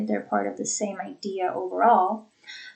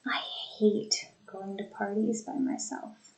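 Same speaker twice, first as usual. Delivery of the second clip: whispered; 6 dB quieter than usual. Shown as a demonstration. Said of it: "a sentence with a few more thought groupings".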